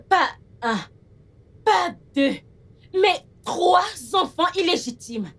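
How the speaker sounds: indignant outburst. Acted. Daughter confronting her father over his children, indignant. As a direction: hammer out the count in outrage.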